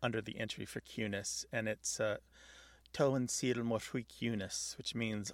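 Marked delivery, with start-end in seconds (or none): 2.9-4.8 slow careful Irish phrase; Irish pronunciation. Shown as a demonstration. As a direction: read the Irish line gently and slowly. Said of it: "Pardon my Irish accent".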